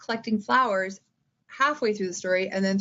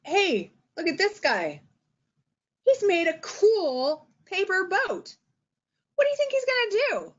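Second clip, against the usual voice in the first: put-on teacher engaging kids; 8 semitones higher than usual. Shown as a demonstration. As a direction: draw young kids into a picture book. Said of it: "you can just talk about".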